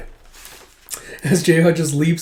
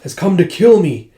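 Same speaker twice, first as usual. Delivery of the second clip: higher-pitched acted panic; panicking; 5 semitones higher, 4 dB louder than usual. Lord fearing the king will kill him, panicky. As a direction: play a lord in a mild panic. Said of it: "Hazara's having panic attacks".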